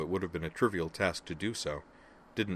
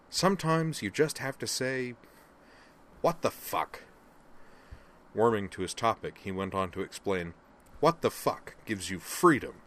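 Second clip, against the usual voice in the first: rousing; 4 semitones higher, 4 dB louder than usual. Acted. Griffin's expansive pep talk.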